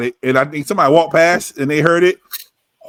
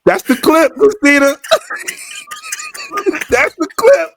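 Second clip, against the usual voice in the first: excited; slower than usual. Real, not acted. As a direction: crow over the perfect clip, high and delighted. Thrilled at a funny line.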